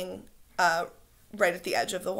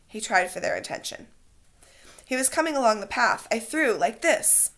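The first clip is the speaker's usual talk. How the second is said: reading a novel aloud to class, lively; story narration; 3 semitones higher than usual. A narrator's reading. Teacher reads the novel aloud to her class, in animated storytelling. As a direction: read the chapter with voiced boys.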